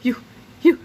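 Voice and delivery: building to a shrieking cry; flustered yell. A narrator's reading. Mother fending off Krupp with her purse, rising shriek. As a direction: sputter in panic as she swats him. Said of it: "Missus Needley yelled".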